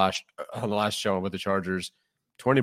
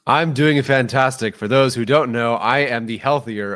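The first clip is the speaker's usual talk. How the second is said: excited; 4 semitones higher, 8 dB louder, slower than usual. Real, not acted.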